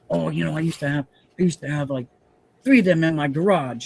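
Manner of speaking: loosely imitating a Queens fireman's New York talk; rough, half-hearted New York mobster-ish accent. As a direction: tries for brother-in-law's New York accent, slides toward a mobster. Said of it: "I can't even talk like him because I'm talking more like a, a mobster".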